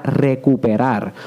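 "recuperar" slowed right down, falling at the end; emphasized word. Shown as a demonstration. Host spelling out his key word for listeners, slow stress. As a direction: stretch out "recuperar" deliberately. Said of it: "por eso utilicé la palabra".

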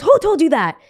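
high-pitched, challenging question; incredulous cruise director. Retold or imitated. Cruise director questioning a stranded passenger, incredulous. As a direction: imitate an official in disbelief. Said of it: "She goes".

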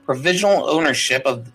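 reading a legal deed in a formal proclamation voice. Acted. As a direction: read it out like an official decree. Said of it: "I will now speak in".

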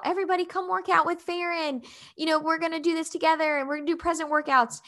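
calling everyone over like an upbeat event host; roll call. Retold or imitated. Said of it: "basically does, like, a roll call".

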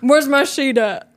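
slow, grumpy sleepy mumble; grumpy half-asleep. Retold or imitated. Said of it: "this is Cash when he's half asleep".

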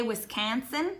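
Wisconsin accent, flattened A in "Wisconsin". Shown as a demonstration. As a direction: say "Wisconsin" softly with a local Wisconsin accent. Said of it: "how you say Wisconsin with an accent".

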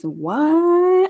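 high, drawn-out mock shock; shocked Pikachu. Boyfriend hearing talk of marriage, mock shocked. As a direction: exaggerate a stunned, stretched question. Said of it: "Pikachu face".

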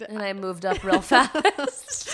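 laughing through the words, slowed. Real, not acted. Sister recalling rushing from the feet, laughing. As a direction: chuckle as you tell it.

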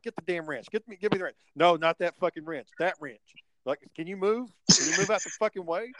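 mildly hammed-up irritation; retold impatient orders. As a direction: replay being testy with a helper. Reenacts snapping at helper over wrench.

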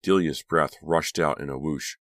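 usual speaking voice

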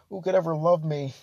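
slow, hammed-up self-pity with a laugh; mock despair. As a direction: play a tragic monster, tongue in cheek. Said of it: "I'd be like".

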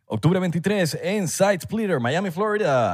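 ad announcer voice. Retold or imitated. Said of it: "publicidad ... que hace Baldomero Martínez".

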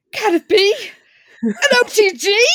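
high, loud hammed-up old-timey gangster; mock gangster voice. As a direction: ham up the gangster's big entrance. Voicing the OTG character intro.

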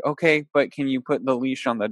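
calm, unraised voice; even and mild, softening at the end. Retold or imitated. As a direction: imitate a man patiently repeating a request. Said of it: "he's being this calm".

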